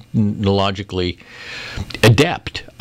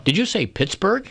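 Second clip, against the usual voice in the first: automated phone voice; 9 semitones higher than usual. Retold or imitated. Mimicking the automated airline system.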